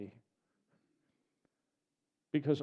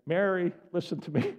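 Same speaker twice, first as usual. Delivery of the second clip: mildly stern call for attention; a little stern; 3 semitones higher than usual. Acted. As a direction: firmly get a distraught friend to listen. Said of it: "could have gotten a little stern here".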